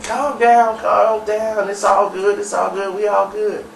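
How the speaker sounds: pacifying. Retold or imitated. Shamika stepping into a quarrel to calm everyone, pacifying. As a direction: talk everybody down, repeating it.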